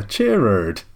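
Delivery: slow "chair erd", like chair plus erd; Gerard said CHAIR-erd. Shown as a demonstration. Podcaster confirming the odd pronunciation, "chair erd" said slowly as CHAIR-erd. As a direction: draw out "chair erd", ending erd, not ard. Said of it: "It is pronounced like chair erd".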